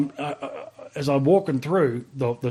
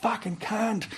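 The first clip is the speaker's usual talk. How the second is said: higher, softer curse under the breath; muttered curse; 9 semitones higher, 6 dB quieter, slower than usual. Retold or imitated. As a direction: swear quietly at the pain. Burns hand, swears under breath.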